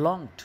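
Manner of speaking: "longed" said whole as a single syllable; one-syllable pronunciation. Shown as a demonstration. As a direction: say "longed" in one go, no break before the -ed. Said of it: "গোটাটাকে আমরা একসঙ্গে উচ্চারণ করতে পারি".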